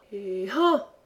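throwing grunt, "han"; effort cry. A narrator's reading. Camus launches his stone, effort grunt. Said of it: "Camus, en faisant".

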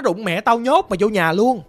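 angry scolding. Retold or imitated. Mother scolds and locks daughter.

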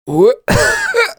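harsh, high, choking cough; terrible coughing fit. Acted. Injured hero choking instead of words, coughing hard. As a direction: hack it out when the words won't come. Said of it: "зашёлся жутким кашлем".

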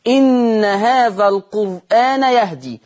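slow, drawn-out recitation of the verse; Quran recitation. Shown as a demonstration. Teacher reciting the verse for the students, slow and measured. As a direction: recite it slowly as a demo. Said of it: "يعني هيقرأ مثل حفص".

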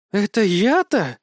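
high, loud mocking retort; scoffing. Dragon mocks the hero's age, scoffing and high. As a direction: scoff at being called young. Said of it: "фыркнула Жуля".

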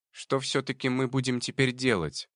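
high squeaky little rat. Acted. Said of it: "пропищал крыс".

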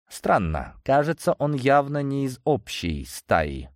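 usual speaking voice

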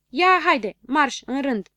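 high, loud rude snap; snapping rudely. Acted. Boy snapping at the little ones to line up, loud and rude. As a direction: bark the order, pushing them into line. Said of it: "se răsti Habar n-am".

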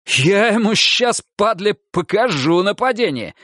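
high furious huffing threat; huffing angry threat. A narrator's reading. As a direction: huff out the threat. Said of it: "засопел Монахов".

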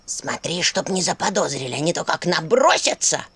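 a hint of a creaky skull voice, low and wary; skull warning. A narrator's reading. Skull cautioning Vasilisa at the table, low and wary. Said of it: "предупредила череп".

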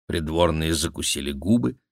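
usual speaking voice

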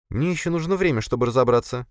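high-pitched female character voice; woman subordinate. Acted. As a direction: raise the pitch for a woman answering her boss. Voiced woman answering her angry boss.

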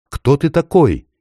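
put-on high, hushed boy asking; awed question. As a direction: ask in wonder. The boy asks again.

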